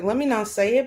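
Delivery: normal talking voice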